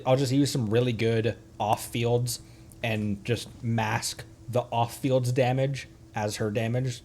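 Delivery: ordinary delivery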